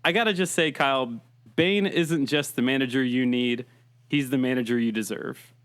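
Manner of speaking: muffled Bane voice through cupped hands; hands cupped over mic. Acted. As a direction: talk into your hands, lightly as Bane. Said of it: "is me talking into my hands".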